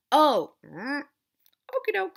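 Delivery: high, airy mom going along with it; mock passive mom. Mimicking the mother meekly agreeing with the father. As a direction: play the meek mom who just agrees. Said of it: "the mom is just like".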